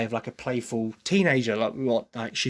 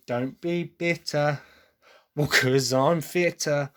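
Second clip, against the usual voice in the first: slow demo of an English accent; measured English-accent pronunciation; 3 semitones higher, slower than usual. Shown as a demonstration. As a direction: show the rhyme slowly in an English accent. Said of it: "for an English person, you can be".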